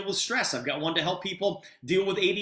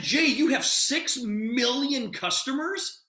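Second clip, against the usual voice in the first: stunned, slow, raised pitch in disbelief; astonished; 6 semitones higher, slower than usual. Retold or imitated. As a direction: replay the moment of near-falling off the chair. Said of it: "I almost fell off my chair".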